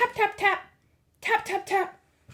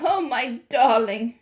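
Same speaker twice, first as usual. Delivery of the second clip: cried tenderly; 4 dB louder, slower than usual. A narrator's reading. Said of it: "she cried".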